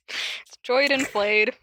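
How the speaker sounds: "Joyd and Flayed" said slowly, each made-up name given weight; deliberate mispronunciation. Shown as a demonstration. Asked to repeat, the host slowly says Joyd and Flayed. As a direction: savour "Joyd and Flayed" as a joke. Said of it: "How'd you say that again?".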